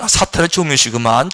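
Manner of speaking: low dismissive knowing tone; calm low aside; knowing remark. Shown as a demonstration. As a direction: shrug off the criticism calmly. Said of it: "정확한 거예요".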